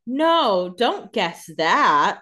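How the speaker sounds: slow, drawn-out mock plea; mock pleading. Co-host imitating Catherine's worried face, slow mock plea. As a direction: beg them not to guess it, stretching it out. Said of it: "She does her little face like".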